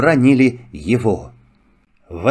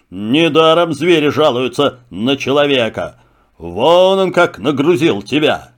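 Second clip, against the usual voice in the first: lion voice. Acted. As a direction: speak as a calm king of beasts. Lion speaks. (голос льва)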